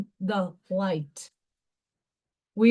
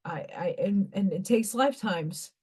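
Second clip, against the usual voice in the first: soft whisper; 4 semitones lower, 6 dB quieter than usual. Real, not acted. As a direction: whisper it to yourself. Drops to a whisper.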